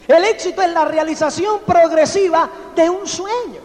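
a rousing motivational shout; emphatic proclamation. Real, not acted. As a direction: proclaim the definition to the room. Proclaiming the key definition.

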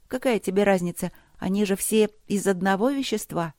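lightly voiced, complaining girl; impatient young princess. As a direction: argue as a fed-up little girl. (нетерпеливая девочка жалуется)

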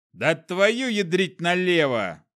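a fat man swearing over spilled papers; cursing. A narrator's reading. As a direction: curse it out in frustration. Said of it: "сругнулся толстяк".

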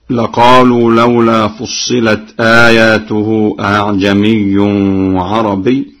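slow chanted recitation, أأعجمي with eased second hamza; Quran recitation. Shown as a demonstration. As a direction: chant it slowly. Hafs reading before Warsh. (تلاوة بتسهيل الهمزة الثانية)

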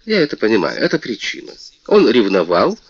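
высокий, звонкий голос обиженной принцессы; жалуйся, как оскорблённая принцесса; мультяшная принцесса. Acted. Принцесса спорит с королём. (принцесса жалуется королю, звонко и обиженно)

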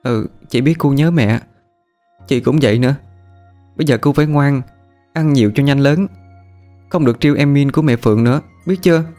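comforting. Acted. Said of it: "Kẹo dỗ cho thằng Cu".

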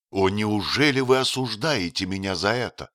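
usual speaking voice

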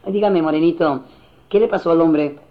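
lightly camp coaxing question; a hint of flirtation; effeminate man. Effeminate man questioning a bystander, lightly camp. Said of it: "se le acerca al moreno".

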